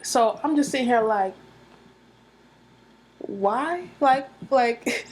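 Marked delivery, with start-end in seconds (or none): 3.2-5.0 loud, high exasperated "why". Real, not acted. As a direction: cry out in exasperation. Exasperated reaction.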